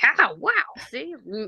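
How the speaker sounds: high-pitched mock amazement, breaking into a laugh; amazed. Imagining the dream finally coming true, acting amazed. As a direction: play at being wowed, voice leaping up. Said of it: "I'll never cease to be amazed".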